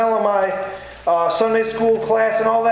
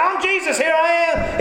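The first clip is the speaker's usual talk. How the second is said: mock announcing cry; 6 semitones higher than usual. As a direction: call it out high, as a mock grand entrance. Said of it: "isn't out there shouting and screaming".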